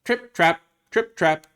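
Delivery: high, loud trip-trap; punchy rhythmic hoof steps; hoofbeat imitation. A narrator's reading. Storyteller sounding the middle goat's hooves, high sing-song imitation. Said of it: "went his hooves".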